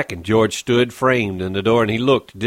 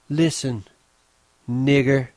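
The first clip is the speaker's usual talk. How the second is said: scornful; 4 semitones higher than usual. Acted. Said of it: "She turned on him in scorn".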